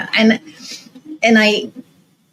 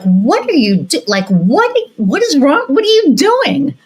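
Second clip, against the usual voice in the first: baffled partner; 9 semitones higher, slower than usual. Retold or imitated. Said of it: "his partner is like".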